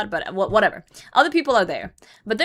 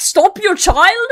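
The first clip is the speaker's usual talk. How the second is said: mock shrill, very high, raised, furious voice; 11 semitones higher, 9 dB louder than usual. Retelling confronting parents who won't stop their child, reenacting own angry yell. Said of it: "I'm so mad".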